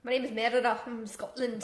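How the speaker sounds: put-on amateur Scottish accent as a film princess; playful, badly faked Scottish accent; Scottish accent attempt. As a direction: sign off in a rough Scottish accent. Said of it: "Can I try a Scottish accent?".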